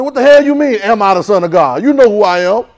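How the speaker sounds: defiant retort. Retold or imitated. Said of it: "I'm gonna say".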